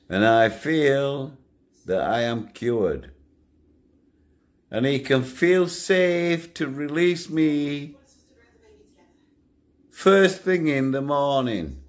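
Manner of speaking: high, put-on polite prisoner voice; mock formal request. Inmate asking the guard to fetch the governor, high and mock polite. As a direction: lay it on thick, sweetly high. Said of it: "And I used to say".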